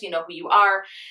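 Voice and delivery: ordinary talk, nothing marked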